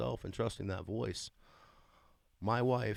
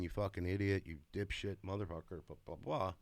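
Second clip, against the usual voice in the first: mock nasty inner voice; 4 dB quieter than usual. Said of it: "not hear a voice saying".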